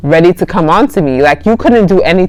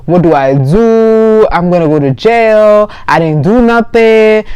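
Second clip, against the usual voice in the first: mock crying; 3 semitones higher than usual. Guy panicking over girl who passed out, mock crying. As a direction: imitate him crying, dragging out each phrase. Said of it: "So he starts crying".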